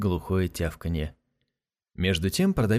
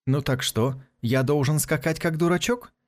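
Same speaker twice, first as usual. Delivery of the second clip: rude; 5 semitones higher than usual. Acted. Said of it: "спросил Касмаля невежливо".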